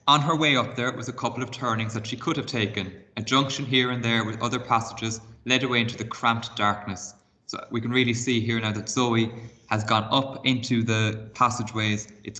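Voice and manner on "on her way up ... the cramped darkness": expressive read-aloud storytelling; reading a chapter book aloud to pupils; story narration. A narrator's reading. Teacher reads story aloud.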